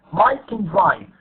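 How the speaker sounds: CAN weak and quick between stressed MIKE and DRIVE; reduced can. Shown as a demonstration. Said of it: "This is the positive".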